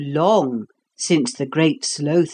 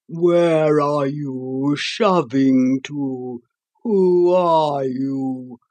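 grumpy sleepy creature; slower than usual. Acted. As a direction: grumble at the intruder. The Sloth scolds an intruder.

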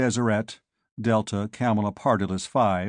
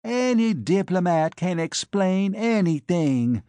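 shouting back; 7 semitones higher, slower than usual. A narrator's reading. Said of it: "she shouted back".

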